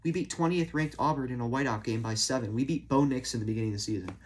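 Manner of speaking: sarcastic. Acted. Sarcastic praise after bad losses.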